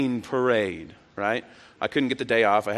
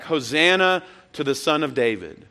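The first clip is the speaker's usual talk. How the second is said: mildly raised mock crowd call; retold answering yell; 3 semitones higher than usual. Preacher voicing pilgrims answering the townspeople, half yell. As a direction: call back in a half-shout. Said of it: "they would yell back".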